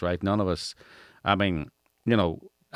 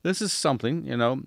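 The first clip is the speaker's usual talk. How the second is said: much higher, imitating his own hesitation; mock dithering voice; 10 semitones higher, 3 dB quieter than usual. Interviewer recalls his reaction to candidates, much higher mock dithering. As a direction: pitch way up as if caught off guard. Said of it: "I was going".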